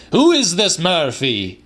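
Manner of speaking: a cantankerous grandfather crying out; old man crying out. A narrator's reading. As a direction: demand it, indignant and shrill. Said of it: "he cried".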